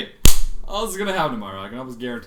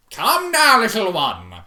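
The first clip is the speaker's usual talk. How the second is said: higher, louder, sing-song zebra; Zecora voice; 8 semitones higher, 10 dB louder, slower than usual. Acted. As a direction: coo it theatrically. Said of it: "redone in Zecora voice".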